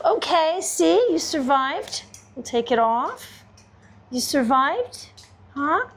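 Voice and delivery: high sing-song praise for a dog; high praising voice. Real, not acted. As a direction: cheer the pup on, voice up. Praising dog after nails.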